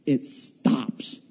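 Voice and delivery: dropped to a breathy hush; a whispered beat of suspense. Acted. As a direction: let it hang, barely voiced. Car halts at the top.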